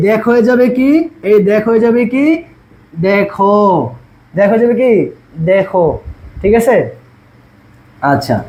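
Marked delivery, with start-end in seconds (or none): 3.1-3.6 দেখো with an open, ae-like first vowel; দেখো as "dae-kho"; open e sound. Shown as a demonstration. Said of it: "এ ধ্বনি বিবৃত হবে". 5.5-5.9 দেখো with an open, ae-like first vowel; দেখো as "dae-kho"; open e sound. Shown as a demonstration. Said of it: "এ ধ্বনি বিবৃত হবে".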